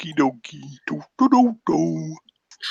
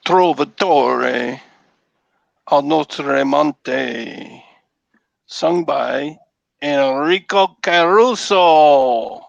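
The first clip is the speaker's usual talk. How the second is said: put-on Italian accent; 3 dB louder, slower than usual. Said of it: "How's my Italian accent? Pretty bad".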